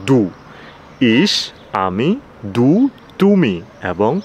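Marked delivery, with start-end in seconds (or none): 0.1-0.2 ডু with a d close to Bengali দ, not fully; German pronunciation demo. Shown as a demonstration. Teacher showing learners the German word for you, pronunciation demo. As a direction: say ডু as a short, clear German du. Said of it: "বাংলায় দর মতো, but পুরাটা না".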